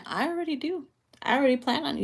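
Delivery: voicing the feminine. Reader voicing the feminine partner's eager reply. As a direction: play her coy, already a step ahead. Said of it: "I'm hearing feminine saying".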